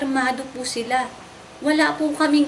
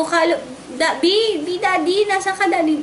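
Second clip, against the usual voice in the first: retold calling out; 4 semitones higher than usual. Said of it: "tinatawag ko".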